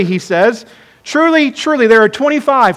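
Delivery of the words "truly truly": "Truly, truly" with both words pitched high; emphatic repetition. Acted. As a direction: demand attention with a high, stressed "Truly, truly". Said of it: "He's repeating it for emphasis".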